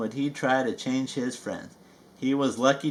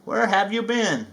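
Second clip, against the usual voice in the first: cheery Tigger call; 6 semitones higher than usual. Acted. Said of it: "Tigger cried".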